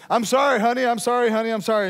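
high, loud run of apologies; hammed-up urgent apology; pleading husband. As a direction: play a husband apologizing over and over. Husband's hurried repeated apology, acted.

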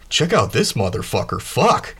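animated, pitch leaping on the last word; excited Kai. Acted. Kai showing off the car as he sits, excited. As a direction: burst out at the end in excited surprise. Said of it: "Kai sits down it and he's like".

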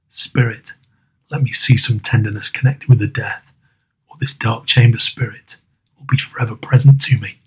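low, hushed plea fading toward a whisper; pleading Scrooge. Acted. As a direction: beg the spirit under your breath.

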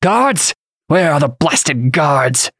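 high cry, then slow exasperated demand; calling out. A narrator's reading. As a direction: summon help indignantly. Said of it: "and then called out".

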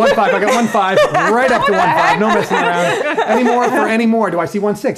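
loud, laughing auctioneer calling bids. Pretend. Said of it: "Can you please auction for us?".

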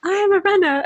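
high-pitched, giggly proclamation; laughing mock declaration. Runner playfully claims her badge to her friend, laughing declaration. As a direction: proclaim it jokingly through laughter.

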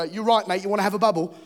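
playful imitation of a Hackney tough; confrontational Hackney local. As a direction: square up like a Hackney local, half-joking. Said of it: "If you look at someone wrong in Hackney".

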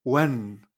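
"Wen" with an e inside, low; Chinese un sound. Shown as a demonstration. Teacher correcting the Spanish reading, low clear "Wen". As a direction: say "Wen" as u-e-n, not oon. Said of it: "Un no es chino".

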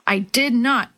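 ordinary delivery

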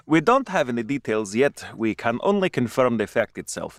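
badly faked Russian accent; terrible Russian accent. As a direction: read it out in a clumsy mock Russian accent. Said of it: "That was a terrible Russian accent".

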